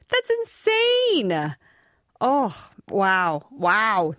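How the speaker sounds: amazed. Real, not acted. Amazed at huge spider fangs.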